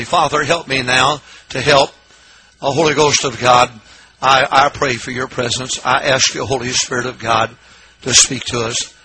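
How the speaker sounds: earnest pulpit prayer; public prayer. Real, not acted. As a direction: pray aloud for help, in an even voice.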